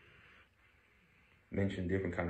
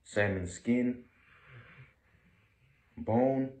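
loud, clear food words; 4 semitones higher, 6 dB louder, slower than usual. Real, not acted. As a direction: call out each word loudly. Testing if sleeping dog wakes. (llamando fuerte)

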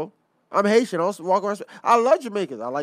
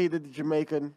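Jamaican accent slipping out by accident; accidental Jamaican accent; 2 semitones lower, 6 dB quieter than usual. Real, not acted. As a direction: let a touch of Jamaican accent slip in. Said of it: "caught the spirit of some Jamaican".

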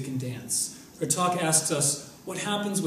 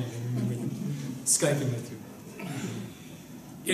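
laughing; 4 dB quieter, much slower than usual. Real, not acted. Fond aside to the speaker.

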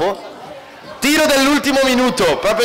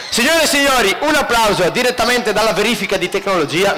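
announcer voice. Acted. Announcing next contestant.

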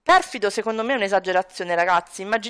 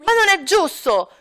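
whining shout; 8 semitones higher than usual. Acted. Son ranting to his father about rules, high whiny child. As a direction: kid throwing a tantrum at dad.

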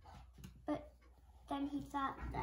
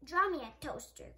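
growled; 6 dB louder than usual. Acted. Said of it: "growled the monster".

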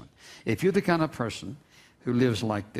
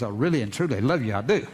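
laughing; faster than usual. Real, not acted. Laughing over exclamation-point texts.

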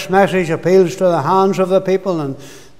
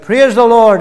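a mock shout of praise, louder; retold shout; 3 semitones higher, 5 dB louder than usual. Alone at home, shouting praise to the Lord. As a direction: call out praise the way he did alone. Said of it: "I shouted".

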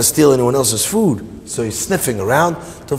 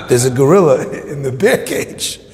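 laughing mid-sentence; chuckling through the words; amused laughing. Real, not acted. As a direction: crack up while landing the punchline. Laughing at his own punchline.

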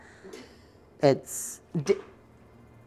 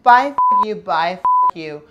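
shrieked high and loud, hammed up; loud high mock screech of goodbye; mock shrieking goodbye; 6 semitones higher, 11 dB louder than usual. Mock host yelling at evictee.

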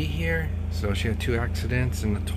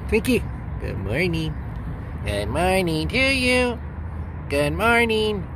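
pet voice; 6 semitones higher than usual. Real, not acted. Greeting the puppy.

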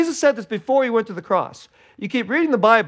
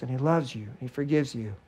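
ordinary talk, nothing marked

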